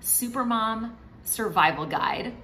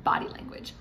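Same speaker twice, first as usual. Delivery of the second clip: whispered. Shown as a demonstration. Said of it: "I also want you to remember".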